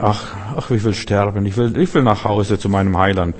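mock lament. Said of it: "sitzen und trauern".

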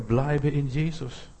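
slow, drawn-out exhortation at normal volume; slow encouragement. Acted. Preacher encouraging believers to stay, slow and steady. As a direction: encourage them, stretching the words out. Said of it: "ermutigt werden".

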